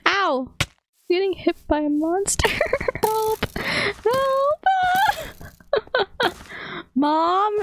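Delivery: high yelps for help under attack; panicked yelps. Real, not acted. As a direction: shriek for help as the monster hits. Getting hit by a monster.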